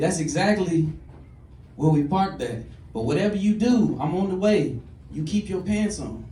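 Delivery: a brother on the phone, answering with amusement; brother's loud phone reply. Retold or imitated. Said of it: "He said".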